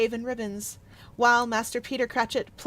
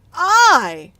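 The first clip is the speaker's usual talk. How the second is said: sharp high indignant cry, much louder; cried out; 6 semitones higher, 14 dB louder than usual. Acted. The Spirit cries out at Scrooge's accusation, loud. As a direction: fling the word back in shock. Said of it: "cried the Spirit".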